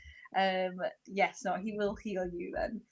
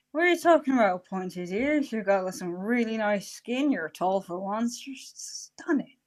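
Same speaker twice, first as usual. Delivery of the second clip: gushing flattery; 4 dB louder than usual. Acted. Bard reassures someone about pointed ears and looks, gushing. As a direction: lay on the compliments with theatrical disbelief.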